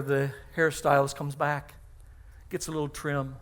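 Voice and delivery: normal talking voice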